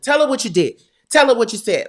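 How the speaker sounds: loud, high angry order; husband confronting the producer, loud and angry; stern demand. Retold or imitated. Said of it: "My husband's standing there with his arms folded".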